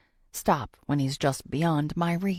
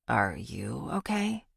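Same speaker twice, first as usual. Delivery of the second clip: gentle Shane; 6 semitones lower, 4 dB quieter, slower than usual. A narrator's reading. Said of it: "Shane asks".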